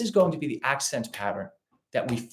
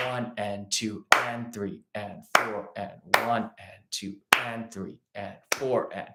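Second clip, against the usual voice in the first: slow, even one and two count; 3 semitones lower, 4 dB quieter, slower than usual. Shown as a demonstration. Teacher slowly counting straight eighths to clear up confusion. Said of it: "groupings of three straight eighth notes".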